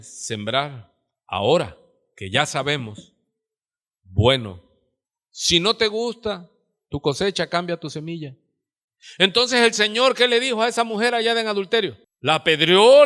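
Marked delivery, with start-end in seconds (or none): none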